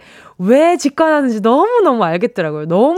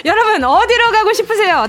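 laughing; 9 semitones higher, 3 dB louder than usual. Real, not acted. Host repeats the question laughing.

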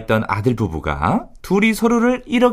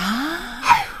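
cringing groan; 4 dB quieter, much slower than usual. Real, not acted. Cringe at nicknames.

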